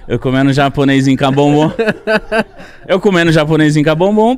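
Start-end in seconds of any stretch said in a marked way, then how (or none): 0.1-1.7 P=A; laughing through the line. Real, not acted. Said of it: "repeats line".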